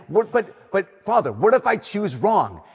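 pleading, stretched-out question; anxious protest. Retold or imitated. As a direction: retell the worried student begging Father Timo, slowing down. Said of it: "so frustrated and so annoyed".

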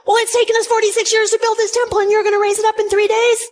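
quick sneering disbelief; mocking disbelief. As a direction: scoff at the claim like a doubting crowd. Voicing the skeptical Jews.

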